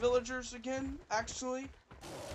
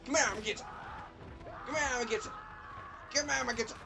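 playful menace; 5 semitones higher, much faster than usual. Pretend. Playfully chasing villagers.

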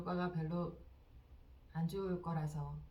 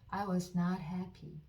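very slow, each word spaced out for repeating; dictation-slow teacher read; slow model sentence; much slower than usual. Shown as a demonstration. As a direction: say it slowly so learners can follow. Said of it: "듣고 따라해 보세요".

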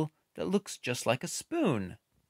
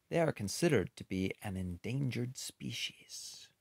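whisper; 6 dB quieter than usual. Acted. Sad fact about rare birds.

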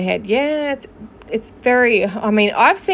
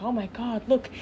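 hushed mock gossip; 4 dB quieter than usual. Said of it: "all these people are gonna be like".

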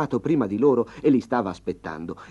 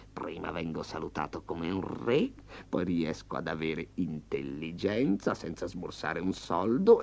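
tiger's private thoughts; 2 semitones lower than usual. Acted. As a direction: savour the plan under your breath. Tigre thinking.

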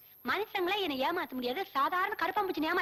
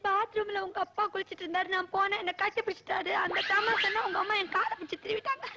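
wailing complaint; hammed-up weepy telling; tearful. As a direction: tell your woes half crying. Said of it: "என்ன செல்லம்மா அழுதுட்டு வர்ற?".

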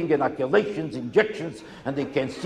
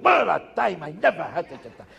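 mock gushing; 4 semitones higher than usual. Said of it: "They'll tell you what a time they had".

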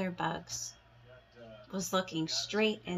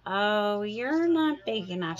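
loud dismissive; 3 semitones higher, 8 dB louder than usual. Acted. Grouchy ladybug dismisses.

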